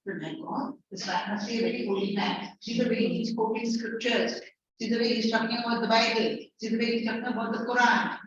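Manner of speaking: awed believer. Acted. Teacher voices a fooled believer.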